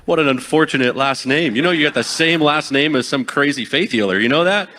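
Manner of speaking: high, loud mock-amazed stranger; imitating a chatty stranger. Caller mimicking a stranger who says his name is unfortunate, loud and high. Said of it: "One was either like".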